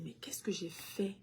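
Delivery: soft breathy whisper of guilt; whispered self-doubt. Retold or imitated. Parent doubting herself after diagnosis, whispered. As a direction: whisper it to yourself. Mother voicing self-blaming inner thought.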